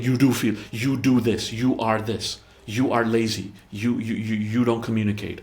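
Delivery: jab each you like an accusation; accusing. Shown as a demonstration. Partner listing faults at the other, mildly mock accusing. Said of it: "Rather than saying".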